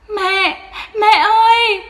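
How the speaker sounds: put-on very high, loud wailing child; a small boy shrieking for his mother; child screaming crying. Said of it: "khóc thét lên". (bé khóc thét gọi mẹ)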